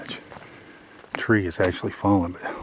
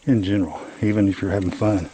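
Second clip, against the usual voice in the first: loud; 5 dB louder than usual. Real, not acted. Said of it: "speak as loud as possible".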